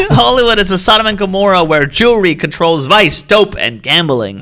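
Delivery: laughing mock dictator rant; hammed-up ranting dictator impression; old-timey German voice. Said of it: "Give me your best great dictator impression".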